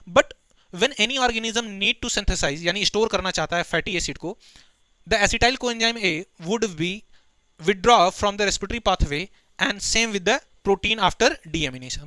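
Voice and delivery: slow, deliberate dictation pace; slow textbook recitation; reading the textbook aloud. Acted. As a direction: dictate each word to the class. Reads textbook line aloud.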